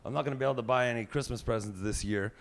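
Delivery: a hint of a whiny teenage girl; mock daughter asking dad. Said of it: "she says".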